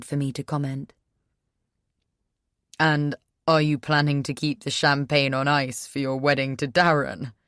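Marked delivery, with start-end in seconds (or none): 2.8-7.3 bitter sarcastic question. Acted. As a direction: sneer the question. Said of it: "he asks sarcastically".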